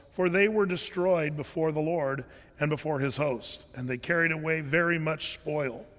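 a lightly solemn Bible reading; scripture reading. Acted. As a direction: read the passage steadily, like from the pulpit. Reads Second Chronicles aloud.

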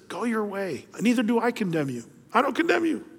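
softly, kindly forgiving; gracious and gentle. Retold or imitated. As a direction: let her go with quiet mercy. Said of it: "I love the graciousness".

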